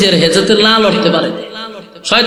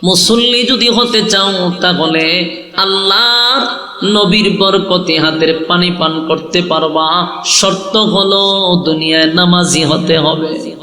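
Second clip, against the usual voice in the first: melodic preaching; slower than usual. Real, not acted. Preacher urges the crowd to pray, melodic preaching. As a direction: draw out the phrase endings tunefully.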